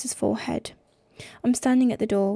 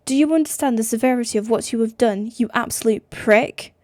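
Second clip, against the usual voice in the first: loud, fast angry tirade; furious; 4 dB louder than usual. Acted. Sister raging at Nick on the phone, loud and fast. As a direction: tear into him.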